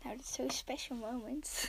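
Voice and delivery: hushed dramatic whisper. Real, not acted. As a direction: whisper it like a secret.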